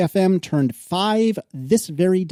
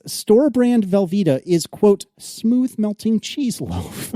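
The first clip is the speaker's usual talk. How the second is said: slow, high-pitched reading on the verge of laughing; barely straight face; 4 semitones higher, slower than usual. Real, not acted. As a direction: draw out the product name, fighting a laugh. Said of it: "couldn't even say it with a straight face".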